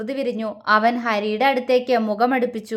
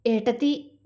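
soft, sorrowful call; sad call; 4 dB quieter than usual. Acted. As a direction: reach out to her sorrowfully. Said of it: "Chinnu സങ്കടത്തോടെ വിളിച്ചു". (സങ്കടത്തോടെ പതിയെ വിളിക്കുന്നു)

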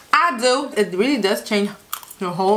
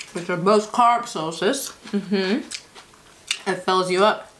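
speaking between bites; talking while chewing; 2 semitones lower, 3 dB quieter than usual. Real, not acted. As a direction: mouth full of salad. Seen 0: Eats salad throughout; new forkful into mouth at 4.7s, chewing after.

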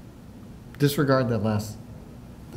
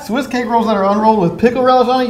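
laughing; 8 semitones higher, faster than usual. Real, not acted. Laughing at the comment.

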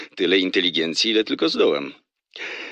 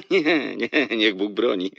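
laughing, drawn-out denial; amused denial; 3 semitones higher, slower than usual. Acted. Man denies doing balance sheets, laughing. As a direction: laugh the idea off.

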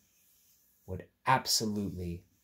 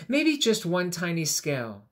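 hesitant thought; 7 semitones higher, 9 dB louder than usual. Acted. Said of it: "the rainbow fish thought".

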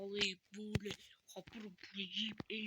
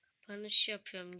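"Kapanış" said out loud, louder; loud announcement; 5 dB louder than usual. Real, not acted. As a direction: announce "Kapanış yapıyorum" loudly. ("Kapanış yapıyorum" yüksek sesle)

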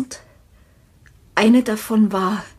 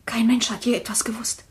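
softer, secretive; hushed; 5 dB quieter than usual. Acted. Widow confiding the secret, softly.

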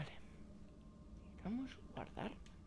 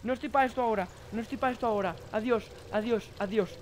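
nervous retreat; 3 semitones lower, 4 dB quieter, faster than usual. Real, not acted. Hurrying away from pursuer.

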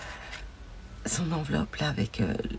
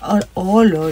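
delighted gasp; 4 semitones higher, 13 dB louder than usual. Real, not acted. Opening a gift with delight.

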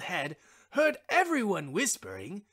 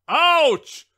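loud, higher yelp; cry of pain; 6 semitones higher, 12 dB louder than usual. A narrator's reading. Wishbone yelping as the children pull, loud and high. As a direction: yelp as your legs are pulled. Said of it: "he cried".

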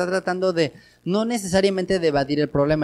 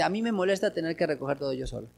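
gentle complaint; 8 dB quieter, faster than usual. Retold or imitated. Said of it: "es suave".

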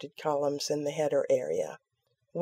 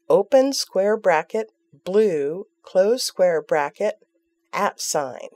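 dictating; 4 dB louder than usual. Shown as a demonstration. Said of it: "set the format property to".

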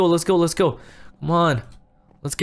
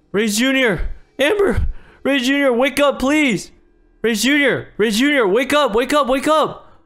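desperate calling; 6 semitones higher than usual. Acted. Trying to wake the kids.

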